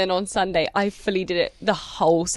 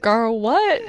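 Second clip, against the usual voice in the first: confused; 6 dB louder than usual. Retold or imitated. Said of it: "everyone's like".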